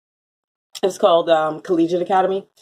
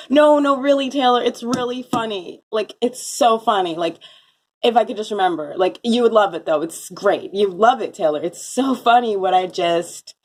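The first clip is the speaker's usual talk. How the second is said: eager pleading; 3 semitones higher than usual. Retold or imitated. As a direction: pitch it up, desperate to be believed. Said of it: "And I was like".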